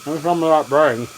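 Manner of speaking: talking through a mouthful; words round a bite of food; mouth full. Real, not acted. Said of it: "Sorry for talking with my mouth full".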